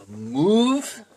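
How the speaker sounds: loud, high, drawn-out call; mock shouted order. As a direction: holler it upward like herding cattle. Man orders cows to move.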